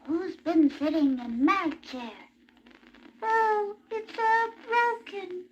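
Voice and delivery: lightly voiced little baby bear; small cub upset, a touch of whine; teeny weeny voice. Baby bear finding his chair broken, teeny voice. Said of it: "in his teeny weeny voice".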